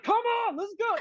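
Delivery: urgent plea. Retold or imitated. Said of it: "I'm like".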